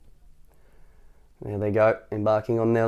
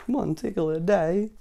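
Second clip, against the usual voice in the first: grumbling; 6 semitones higher, 4 dB quieter, slower than usual. Acted. Tickle grumbling to himself.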